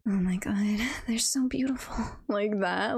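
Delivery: breathless gushing whisper; hushed fangirl awe; swooning whisper. Real, not acted. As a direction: whisper it like you're swooning over a couple. Gushing over yandere love story.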